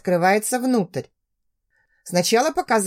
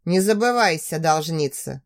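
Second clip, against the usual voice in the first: low threat; 4 semitones lower than usual. Acted.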